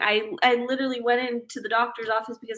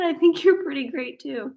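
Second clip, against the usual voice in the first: watch voice; 5 semitones higher than usual. Retold or imitated. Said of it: "It just said".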